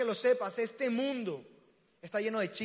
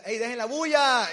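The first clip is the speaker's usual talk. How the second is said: loud yell from another room; Andrés Consuegra; 2 semitones higher, 8 dB louder than usual. Retold or imitated. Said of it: "sale la voz de Andrés Consuegra de mi cuarto y grita". (grito de regaño)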